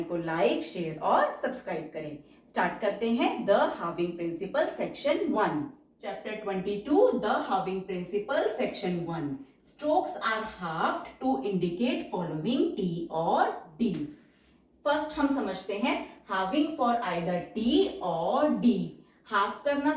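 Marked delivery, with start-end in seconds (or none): 6.0-13.9 very slow, each word spaced out; slow dictation reading. Shown as a demonstration. Teacher reads the chapter heading slowly for shorthand students. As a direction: read it out for students to write down.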